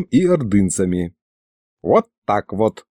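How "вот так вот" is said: put-on low, slow, satisfied old man; contented grandpa. A narrator's reading. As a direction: say it with self-satisfied ease. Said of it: "довольно крякнул Михалыч".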